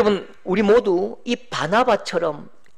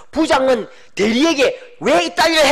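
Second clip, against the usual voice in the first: boss yelling; 3 semitones higher, 4 dB louder than usual. Retold or imitated. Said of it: "소리를 던지면서".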